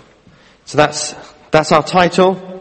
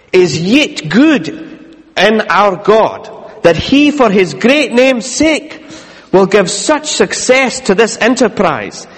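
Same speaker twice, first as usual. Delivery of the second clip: put-on formal old letter reading. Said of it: "this has got old English".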